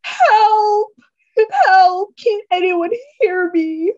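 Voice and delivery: high, loud screams for help; loud, high calling for help; desperate yell. Acted. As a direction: shout into the empty room. Holding dead lover, calling out.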